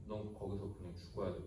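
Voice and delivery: soft, low verdict; a hint of God, low and soft; stern God. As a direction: hand down the verdict quietly. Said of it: "하나님이".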